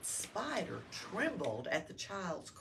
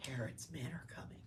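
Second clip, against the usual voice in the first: fast hushed warning; urgent whisper; 5 semitones lower, 12 dB quieter, faster than usual. Acted. Joseph warns Mary of soldiers, fast whisper. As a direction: whisper the danger quickly. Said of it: "he said in a soft voice".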